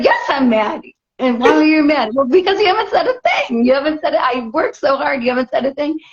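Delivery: wife retelling her complaint to husband, mock upset. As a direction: replay the hurt with a laugh in it. Retold quarrel with husband.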